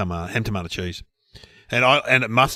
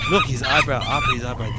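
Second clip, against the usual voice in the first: squeaky monkey voice. Pretend. Narrating the monkey's face.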